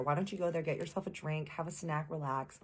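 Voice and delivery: lightly acted calm, caring suggestion; soothing partner. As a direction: gently coax someone to unwind. Partner soothing her, offering a break.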